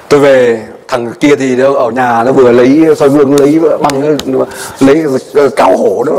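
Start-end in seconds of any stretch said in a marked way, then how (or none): none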